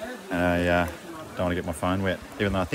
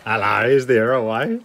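calling out; 4 semitones higher, 7 dB louder, slower than usual. Real, not acted. Calling out in a cave.

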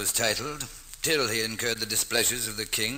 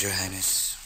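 normal talking voice

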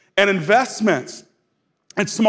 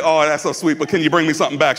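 sweet sly daughter voice, lower; daughter's voice; 6 semitones lower than usual. Retold or imitated. Daughter asking parents for takeout, mock sweet. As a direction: mimic a wheedling kid.

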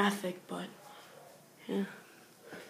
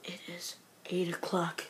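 hushed unvoiced whisper; scared late-night whisper; 8 dB quieter than usual. Real, not acted. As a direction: whisper so nobody hears.

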